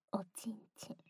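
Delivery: intimate ASMR whisper. Acted.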